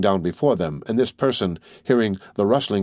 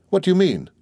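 much higher, startled question; taken aback; 10 semitones higher than usual. A narrator's reading. Debray asks Albert what he means, taken aback. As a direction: pitch leaps up in bewilderment. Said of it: "stammered Debray".

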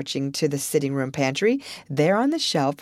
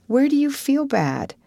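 put-on anxious girl; 8 semitones higher than usual. Anne worried for Diana.

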